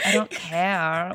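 slow, laughing "I don't care"; mock nonchalant. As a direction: act totally unbothered, slowly through a laugh. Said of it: "look at the camera like".

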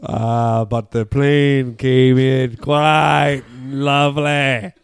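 slow, giggly Irish storyteller; Irish accent, broken by laughs. Acted. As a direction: tell the trip like Patty from Dublin, laughing. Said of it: "talk to my Irish character".

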